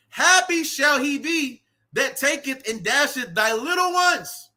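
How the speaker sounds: slow, drawn-out preacher's delivery, rising at the end; scripture declamation. Acted. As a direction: declaim the verse like a street preacher.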